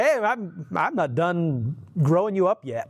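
put-on God gently teasing an eager child; a hint of an amused parent talking down; playful voice of God. God voiced in a teaching story.

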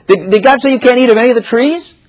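high, quick, sugary tempter; sly serpent. Retold or imitated. Serpent tempting Eve in the garden, high and sly. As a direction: coax her with an innocent-sounding question. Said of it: "He knew he was lying".

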